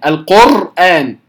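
القرآن with the ra said wrongly. Shown as a demonstration. Teacher showing another wrong ra. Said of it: "خطأ، كلاهما خطأ".

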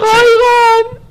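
squeaky high voice. Pretend. Imitating forum poster reading.

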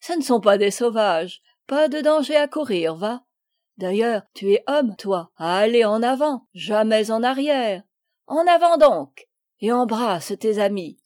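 put-on rally the boy forward; hearty encouragement. Commandant urging shy Paul forward, loud and rousing.

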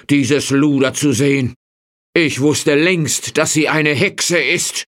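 farmer voice, mildly indignant and scolding. A narrator's reading. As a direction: scold the wife with outrage. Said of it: "sagte der Mann empört".

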